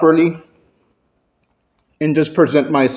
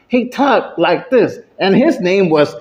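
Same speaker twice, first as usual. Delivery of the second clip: strained ogre voice with scorched vocal cords; damaged, straining creature voice; burned-throat ogre. Acted. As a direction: talk like an ogre whose voice got burned. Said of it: "it burned his vocals".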